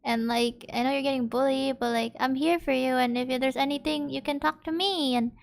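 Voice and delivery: soft, gentle comfort to a hurting friend; quiet reassurance for a friend after the scare. Retold or imitated. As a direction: speak softly, as if reassuring a hurt friend.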